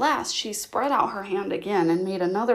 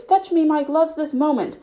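loud, high, impatient command; bossy order; 7 semitones higher, 5 dB louder than usual. Acted. Rabbit ordering his servant, loud and high. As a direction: snap out the order.

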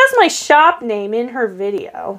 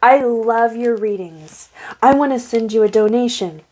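retold scam message; slower than usual. Voices scammer's slow message.

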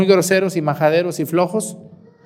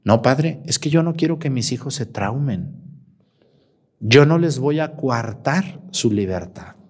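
lax mother; 5 semitones lower, 4 dB quieter than usual. Retold or imitated. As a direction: calmly justify it, unbothered. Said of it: "Le dije".

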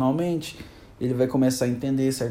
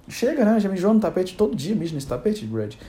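fed-up owner scolding his pet; 5 semitones higher than usual. Pretend. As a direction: lose patience with the pet. Scolding the tiger for the mess.

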